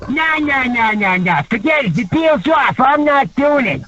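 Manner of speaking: retold huffy protest; acted indignant refusal. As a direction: call the deal off, worked up. Retold refusal on prank call.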